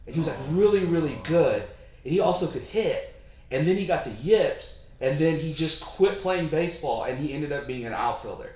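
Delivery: excited retelling. Retold or imitated. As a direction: quote him with eager energy. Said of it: "He said".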